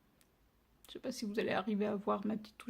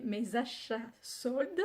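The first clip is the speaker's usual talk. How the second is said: careful slow; slower than usual. Real, not acted. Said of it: "je vais y arriver".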